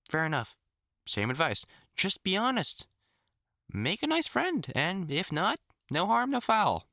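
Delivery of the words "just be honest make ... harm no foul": upbeat encouragement. Real, not acted. Cheerful advice to ward.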